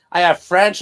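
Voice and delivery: high, loud ditzy bragging; ditzy girl voice. Acted. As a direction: brag it like a bubbly girl. Acted ancestry list.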